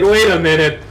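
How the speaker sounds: slow dawning "God damn it"; annoyed realization. Retold or imitated. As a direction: drag it out as the penny drops. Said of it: "Raven was annoyed".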